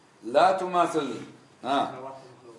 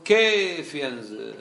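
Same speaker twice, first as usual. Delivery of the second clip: mocking skeptic question; much slower than usual. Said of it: "المشكل عند هؤلاء أنهم يقولون".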